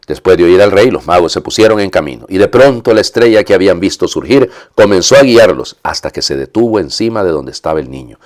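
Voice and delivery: measured scripture reading; lectura del evangelio. A narrator's reading. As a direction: read the Gospel out to the congregation. Lee el evangelio antes de comentarlo. (lectura litúrgica del evangelio)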